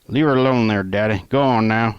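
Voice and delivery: loud-ish mock Southern accent telling Daddy to back off; fake Southern accent. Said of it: "I said in a fake, in a fake fu-, uh, southern accent".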